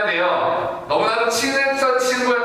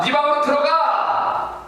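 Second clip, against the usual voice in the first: raised, slower shout of 네 방으로 들어가; shouted order; 6 semitones higher, slower than usual. Acted. Father sends Minyoung to his room, slow raised shout. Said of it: "민영이에게 소리 지릅니다".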